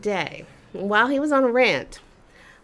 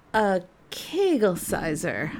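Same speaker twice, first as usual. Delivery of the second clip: calm reply. Retold or imitated. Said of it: "I calmly replied".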